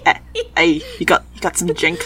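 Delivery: a touch of New York, laughing through it; tough-guy New York street talk, loose and jokey; New York accent. Pretend. Showing friends a New York accent, laughing, loud hey. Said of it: "you could try a New York accent".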